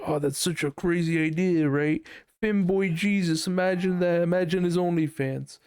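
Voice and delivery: high, gushing group hype; mock eager excitement. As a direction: imitate friends piling onto a crazy idea. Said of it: "everyone just fucking latched onto it".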